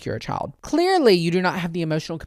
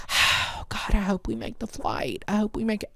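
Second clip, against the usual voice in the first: whiny fretting couple; 5 semitones higher, 5 dB quieter than usual. Retold or imitated. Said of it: "just sitting there like".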